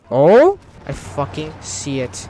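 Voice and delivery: loud drawn-out discovery; excited realization. Real, not acted. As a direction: realize it with a rush. Spots the breakthrough.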